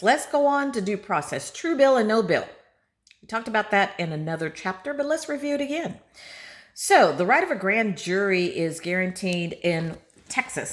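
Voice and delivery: talking while being shaken about; on a bumpy road. Real, not acted. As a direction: voice jolted by a bumpy ride. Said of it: "Sorry for the shaking".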